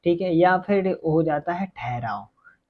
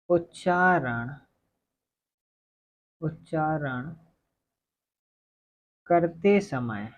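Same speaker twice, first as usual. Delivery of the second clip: slow, drawn-out words with long pauses; slow dictation; much slower than usual. Real, not acted. Teacher dictates a definition while writing it, slow dictation. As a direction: dictate word by word, stretching each one.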